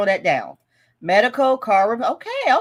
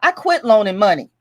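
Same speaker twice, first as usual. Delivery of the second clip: loud, punched-out reading of an all-caps comment; all-caps emphatic; 7 dB louder than usual. Acted. Vlogger voicing a viewer's all-caps comment, loud and emphatic. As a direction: act it out like she means it. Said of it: "writes something in all caps, they mean it".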